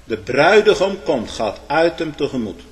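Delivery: midnight cry. Acted. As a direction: call out the bridegroom's coming. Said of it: "geschiedde een geroep".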